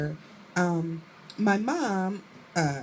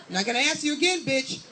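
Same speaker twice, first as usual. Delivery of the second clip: higher-pitched mock threat; imitated angry mother; 6 semitones higher than usual. Mother confronting homeroom teacher, imitated angry threat. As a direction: act out an irate mom's warning.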